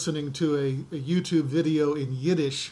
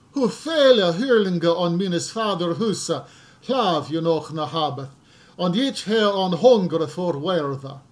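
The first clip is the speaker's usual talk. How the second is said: put-on scripture read aloud in Old English; deliberate, measured Old English recitation. Shown as a demonstration. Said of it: "I'm going to read the parable of the prodigal son in Old English".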